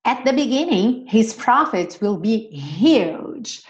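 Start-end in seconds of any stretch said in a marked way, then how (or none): 1.1-3.6 slow, careful model reading; slow teacher model. Shown as a demonstration. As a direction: read it slowly for learners. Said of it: "slow model sentence".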